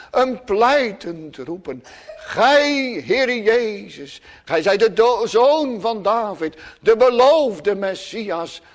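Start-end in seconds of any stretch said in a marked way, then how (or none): 2.2-8.6 a beggar crying for mercy, lifting on O; a hint of desperate pleading, not fully voiced. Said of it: "een smekend roepen". (smekend roepen om genade)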